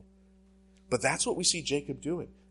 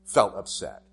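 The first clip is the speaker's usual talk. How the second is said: mock bad apology; 6 dB louder than usual. Pastor mocking bad apologies to the congregation, insincere tone. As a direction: ham up an insincere non-apology. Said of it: "examples of bad apologies".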